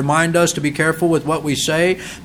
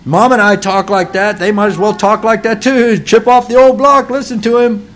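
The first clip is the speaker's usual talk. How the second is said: higher-pitched mock parental excuse; imitated permissive parent; 4 semitones higher, 4 dB louder than usual. Parent excusing a swearing child, mock permissive. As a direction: imitate a parent waving it away, voice raised. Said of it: "The parent's attitude is".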